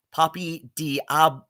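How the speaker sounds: "Poppy Diab-" in broken-up, separated syllables; imitated mispronunciation. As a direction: imitate a botched French name, "Diab-" cut off. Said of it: "She pronounced Poppy's aliases".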